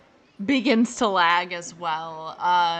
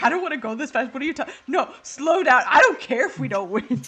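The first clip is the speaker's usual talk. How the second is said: voicing BB; 3 semitones higher, 3 dB louder, faster than usual. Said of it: "I'm just imagining B B's like".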